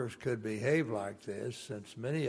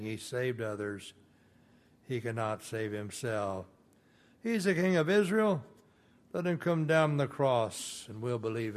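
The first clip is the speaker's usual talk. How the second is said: mocking taunt. Priests mocking Jesus on the cross, sneering. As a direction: taunt him like a jeering priest. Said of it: "were mocking him, saying".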